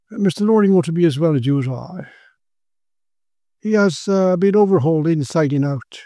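a hint of a fussy practitioner explaining; local doctor. Local doctor giving Quinn his medical view, dismissive.

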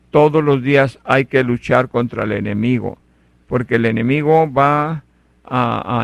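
rising sermon fervor; preaching. Acted. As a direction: preach it hard to the congregation. Preaches the daily fight.

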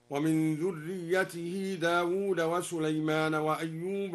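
"موسى" and "هارون" with slightly bent vowels, slow; small imala. Shown as a demonstration. Teacher demonstrates al-Duri's small imala, slow tarteel. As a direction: lean "موسى" and "هارون" lightly toward e. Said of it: "وقلل موسى وهارون".

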